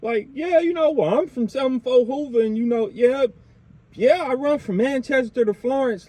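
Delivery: a hint of a cocky gangbanger showing off; mock gangster bragging to cops. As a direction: brag your set to the police like a fool. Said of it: "they saying".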